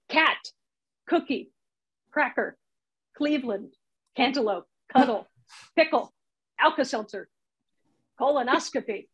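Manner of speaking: each word set apart, its hard K hit crisply; punchy K sounds. Shown as a demonstration. Comedy teacher listing funny K words, emphatic K sounds. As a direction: hit the K in every word, from "Cat" to "colonoscopy". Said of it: "you can just really hit them for emphasis".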